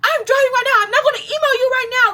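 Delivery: very high, irritated hollering. Retelling a phone call with a woman who refused to email, imitating her hollering, irritated. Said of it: "she's still like hollering on the phone".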